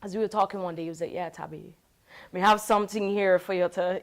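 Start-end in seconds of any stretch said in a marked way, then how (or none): 1.1-4.0 a clumsy, lightly put-on Jamaican accent; half-hearted imitation of a Jamaican friend's lilt; self-mocking attempt at Jamaican patois; bad Jamaican accent. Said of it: "My Jamaican accent horrible".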